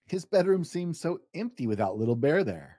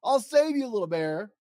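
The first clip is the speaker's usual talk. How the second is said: heroic cry; 6 semitones higher than usual. Acted. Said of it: "he cried".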